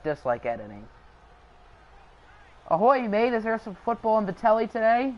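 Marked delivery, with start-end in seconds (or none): 2.7-5.1 muddled pirate-British accent; playful put-on pirate talk. Shown as a demonstration. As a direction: try out an uncertain pirate accent. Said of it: "What accent is that?".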